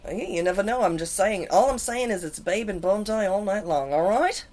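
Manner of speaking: mock Australian with lifted endings; Australian accent. Host promising Bondi all night, mock Australian accent. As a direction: exaggerate the Aussie vowels on Bondi. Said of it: "The accents".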